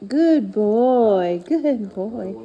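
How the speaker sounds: drawn-out slow praise to the dog. Real, not acted. Owner praising her dog for lying down, slow and drawn out. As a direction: stretch the praise out warmly.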